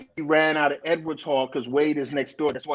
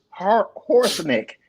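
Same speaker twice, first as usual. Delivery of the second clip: imitating mom's Jamaican accent; mom's Jamaican way of saying "horse nick"; 6 semitones higher, much slower than usual. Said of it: "in her Jamaican accent".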